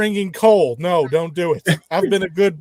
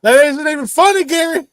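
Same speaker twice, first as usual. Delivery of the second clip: sneering gloating dark voice; hammy archaic sorcerer; necromancer persona; 9 semitones higher, 4 dB louder than usual. Retold or imitated. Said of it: "talking like my, uh, necromancer persona".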